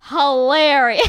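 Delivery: loud, long-drawn hammed-up rave; exaggerated enthusiastic verdict; mock amusement. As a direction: stretch it out in mock delight. Quoting therapist's enthusiasm, hammed up.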